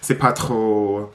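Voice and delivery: low, slow French with an American accent; French spoken by an American learner. Shown as a demonstration. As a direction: demonstrate your imperfect French accent. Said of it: "my accent is definitely shit now".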